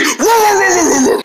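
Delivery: high cartoon barks; rapid play-acted ruffs; pretend dog barking. Dog chases squirrels back to tree, pretend barking.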